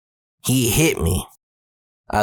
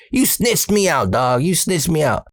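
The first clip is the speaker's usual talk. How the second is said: higher-pitched mock confrontation; acting big and bad; 6 semitones higher than usual. Teen in bed rehearsing for his snitching friend, acting big and bad. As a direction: put on a tough accusing front. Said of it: "trying to be all big and bad".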